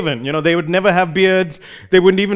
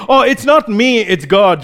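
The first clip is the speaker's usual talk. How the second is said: mock-modest, pitched up on "not me"; false humility; 3 semitones higher than usual. Someone pretending humility when praised, mock modesty. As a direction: lightly imitate someone deflecting praise. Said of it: "some kind of false humility".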